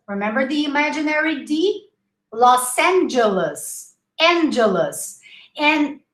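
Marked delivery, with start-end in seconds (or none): 2.3-5.2 Los Angeles with a hissed S linking the words; Los Angeles, S never voiced; S not Z. Shown as a demonstration. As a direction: say Los Angeles as loss-AN-juh-luss. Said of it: "make sure you pronounce double S".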